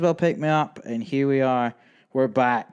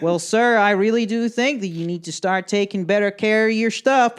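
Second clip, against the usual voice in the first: high-pitched, lecturing border officer; officious scolding; 7 semitones higher, 4 dB louder than usual. Retold or imitated. Border officer lecturing traveller about damaged visa, officious. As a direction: imitate an official telling someone off.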